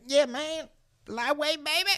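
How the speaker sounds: very high hammed-up bodybuilder cry; Ronnie Coleman impression. Imitating Ronnie Coleman running around the gym, high hammed-up cry. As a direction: belt it like a strongman lifting. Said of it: "And he's like".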